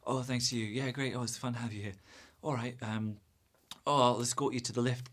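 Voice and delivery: soft, mumbly imitation of stilted goodbyes; awkward politeness. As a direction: act out an uncomfortable, over-polite parting. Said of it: "you have that awkward".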